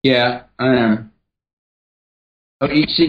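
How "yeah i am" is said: offhand "Yeah, I am" without conviction; uncommitted yes; half-hearted yes. Shown as a demonstration. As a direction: shrug it off. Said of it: "I will answer you two different ways".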